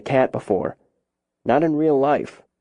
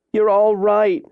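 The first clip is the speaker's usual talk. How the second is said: higher, relieved mother's voice; emotional relief; 9 semitones higher, 3 dB louder than usual. A narrator's reading. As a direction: reassure the child while still shaken. Mother kisses rescued daughter.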